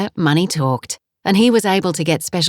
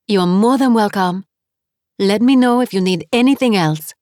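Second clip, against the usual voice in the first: put-on 2 cheerful landlady with a heavy French accent; 3 greet her warmly in thick French-accented English; 4 French guest-house owner, heavy French accent; 4 semitones higher than usual. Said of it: "her accent was heavy".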